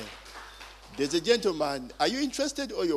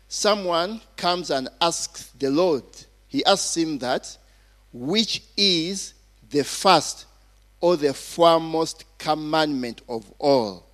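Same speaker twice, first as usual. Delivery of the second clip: slow, measured preacher reading aloud; emphatic scripture reading; 5 dB louder than usual. Real, not acted. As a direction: deliver the verse with deliberate weight and pauses.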